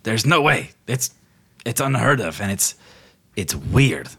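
halting, understated disbelief; incredulous. Acted. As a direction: stammer it out in mild disbelief. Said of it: "like, incredulous".

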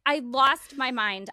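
high and slow, overwhelmed; stunned, overwhelmed recall; excited. Real, not acted. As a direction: relive the shock. Recalling losing it.

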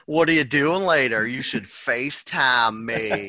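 a hint of a girlfriend asking for a call; imitating Kate. Teasing the co-host as his girlfriend inviting a FaceTime. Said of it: "thought Kate was co-hosting this podcast".

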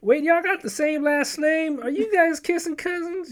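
hammed-up prying granny; suspicious grandma. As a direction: drag it out, scandalized. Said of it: "she just go like".

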